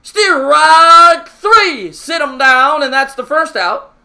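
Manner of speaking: loud, high triumphant call; strikeout call. Real, not acted. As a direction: bark out the strikeout with full joy. Strikeout call in Kermit bit.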